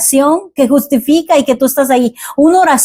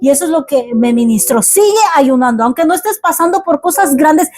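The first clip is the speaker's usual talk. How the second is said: raised, urgent exhortation to keep praying; fervent preaching; 5 semitones higher than usual. Acted. Pastor urging the congregation in fervent preaching. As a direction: press the flock hard to keep on their knees.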